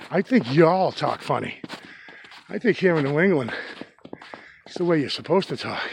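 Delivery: put-on playful teasing brag about his accent; mock-proud New Englander ribbing everyone; joking mock superiority. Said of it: "No, I say that, of course, jokingly".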